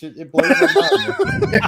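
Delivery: high, slow words broken by real laughter; laughing. Real, not acted. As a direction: laugh through it, amazed. Laughing in disbelief at a lookalike.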